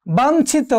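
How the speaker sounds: বাঞ্ছিত with ঞ as a plain n; dental n sound. Shown as a demonstration. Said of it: "দন্ত নয়ের মতো উচ্চারণ হবে". (বাঞ্ছিত-এ ঞ-কে ন-এর মতো উচ্চারণ)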